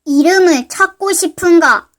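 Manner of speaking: low mysterious voice, stress on 이름을. Acted. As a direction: ask it like a hidden stranger. Mysterious voice appears.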